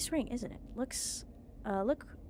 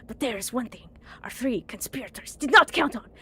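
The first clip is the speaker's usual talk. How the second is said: conspiratorial whisper; 2 semitones higher, 10 dB louder than usual. Acted. Conspiratorial aside to audience.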